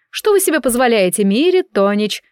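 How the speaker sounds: usual speaking voice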